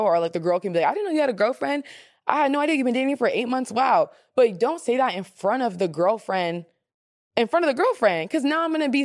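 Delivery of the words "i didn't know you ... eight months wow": high, quick fake astonishment; a touch of fake shock; mock surprise. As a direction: gush with put-on amazement. Girl voicing fake surprise.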